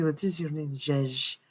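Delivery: lightly put-on character voice; Gregor impression. Joking about a favourite show's character, lightly imitated. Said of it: "This is my Gregor".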